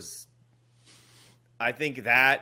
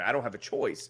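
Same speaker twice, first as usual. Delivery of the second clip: ordinary talk, nothing marked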